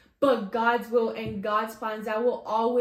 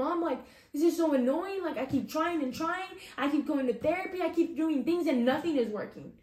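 higher-pitched, half-acted upset plea; retold tearful complaint; 5 semitones higher than usual. Telling mom in the parking lot she's fed up, mildly tearful. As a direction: replay the tearful frustration lightly, pitched up.

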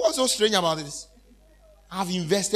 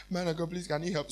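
pleading; 3 semitones lower, 8 dB quieter than usual. Retold or imitated. Lady pleading quietly.

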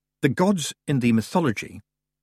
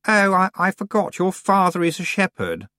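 put-on high, loud haughty girl; a bossy young witch pushing in; proud young witch; 10 semitones higher, 4 dB louder than usual. A narrator's reading. Anagrama backs down nervously.

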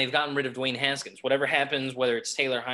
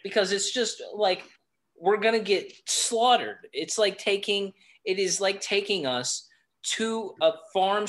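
raised irritated voice; 4 semitones higher than usual. Real, not acted. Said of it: "My voice is raising".

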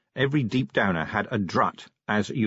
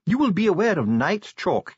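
lightly raised, formal dwarf voice; a stiff dwarf bureaucrat, precise; dwarf official; 9 semitones higher, 3 dB louder than usual. Acted. Ardent's dwarf voice.

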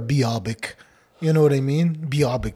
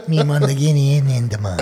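louder, giggling repeat; laughing through the quote; 7 dB louder, faster than usual. Retold or imitated. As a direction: laugh while quoting uncle. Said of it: "it's the way he would say it".

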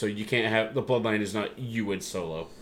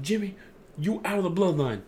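retold ultimatum; 8 semitones higher than usual. Wrestler kicks Jimmy out.

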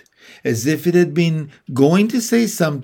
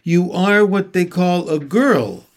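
shy fawn voice; 4 semitones higher, 4 dB louder than usual. Acted. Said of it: "asked the fawn".

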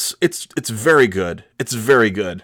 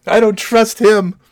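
suspicious inner voice; 11 semitones higher, 4 dB louder, slower than usual. Retold or imitated. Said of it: "I thought, like".

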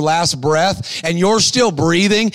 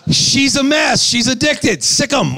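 higher, eager voice urging him on; excited woman; 5 semitones higher, slower than usual. Retold or imitated. Lady from the flight urging the preacher on, higher and eager. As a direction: egg him on like an excited friend.

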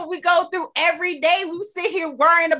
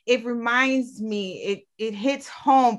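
getting emotional; 4 semitones lower, 3 dB quieter, slower than usual. Real, not acted. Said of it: "I'm getting emotional right now".

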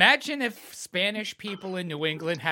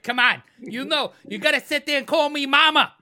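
dominatrix voice; 7 semitones higher, 7 dB louder than usual. Pretend. Playing dominatrix.

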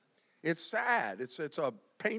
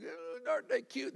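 cooing at llamas; 5 semitones higher, 7 dB quieter than usual. Retold or imitated. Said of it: "and I go".

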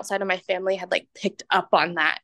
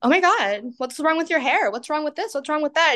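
higher, prying mock concern; mock concerned higher questions; nosy relatives; 5 semitones higher than usual. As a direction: act out the family poking at it.

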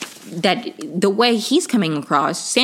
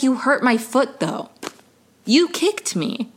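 high, slow mock-whiny complaint; sarcastic high whining impression; mocking whine; 4 semitones higher than usual. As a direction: mimic a whiny wrongdoer playing victim.

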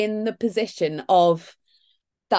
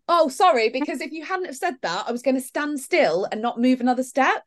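sarcastic reply; 6 semitones higher than usual. Acted. Sarcastic reply to cheering stranger.

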